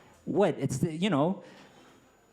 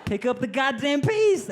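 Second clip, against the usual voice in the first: mock-furious, telling his legs to hurry up; frustrated mind yelling; 8 semitones higher than usual. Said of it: "I see him just walking really slow, like".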